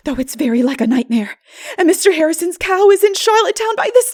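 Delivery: very high, loud, near tears with whispered breaks; despairing girl. Acted. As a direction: wail out the disaster in a panic. Anne in despair.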